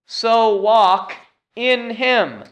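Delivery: "in" set apart, high and emphatic; pause, then hit "in" high; stress on "in". Shown as a demonstration. Preacher reads verse six to congregation, stressing "in". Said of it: "emphasizing the word in".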